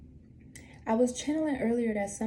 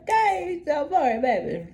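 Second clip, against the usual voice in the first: excited; 7 semitones higher, 6 dB louder than usual. Real, not acted. Cheering on the card draw.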